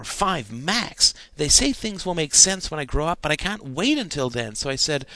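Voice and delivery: put-on a boy pleading his innocent case; lightly voiced eager young boy; earnest boy. A narrator's reading. Stephen explains his spying.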